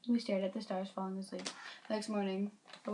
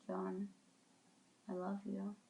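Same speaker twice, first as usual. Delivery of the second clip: soft, faint words; whispering; 6 dB quieter, slower than usual. Acted. Dying Aki whispering to John, tender. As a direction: breathe it into his ear. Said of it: "whispering into his ear".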